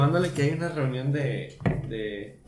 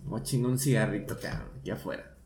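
sneaky muttered aside; 2 semitones lower, 7 dB quieter, faster than usual. Retold or imitated. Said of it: "Y llegas y dices".

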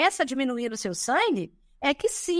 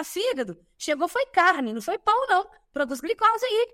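higher, bossy mock order to the liver; voicing glucagon; 4 semitones higher than usual. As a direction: nudge the liver like a boss. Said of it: "cutucar o fígado e falar".

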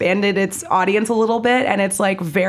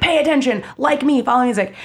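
pushy demand; 4 semitones higher, faster than usual. Retold or imitated. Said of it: "music is very assaulting that way".

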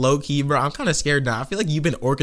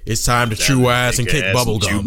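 Duke Nukem voice; 3 semitones lower than usual. Retold or imitated. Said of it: "Duke Nukem".

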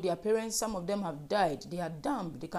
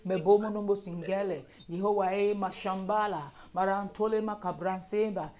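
rhythmic, chant-like stream of prayer syllables; praying in tongues. Real, not acted. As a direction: pour out the syllables in fervent, even bursts. Prays in tongues.

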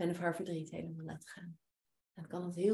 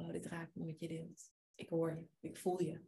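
soft heartfelt; 8 dB quieter than usual. Shown as a demonstration. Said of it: "een hand op je hart leggen".

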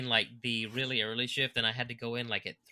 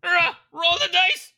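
mock drowsy protest; 6 dB louder than usual. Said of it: "I was like".

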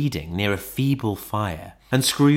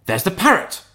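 high-pitched cry of delight; excited cry; 9 semitones higher, 3 dB louder than usual. A narrator's reading. Scrooge catches sight of Crusoe's parrot, delighted cry. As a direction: cry out as you spot it. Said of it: "cried Scrooge".

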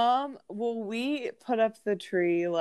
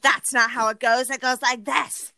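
higher-pitched mock teacher correction; imitated scolding; 5 semitones higher than usual. Music teacher correcting a first grader, imitated scolding. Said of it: "and she scolded me".

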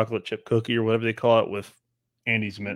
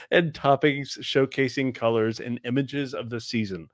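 slow, drawn-out menu read, playfully creepy; mock creepy. Podcaster finishing donut description despite teasing, mock creepy. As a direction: stretch out the description with added inflection. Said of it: "I knew you were gonna make it creepy".

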